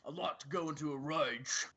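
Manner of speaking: Cockney barbarian accent; burly barbarian with a Cockney accent; Grog voice. Shown as a demonstration. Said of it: "I'm trying to do a grog from Critical Role".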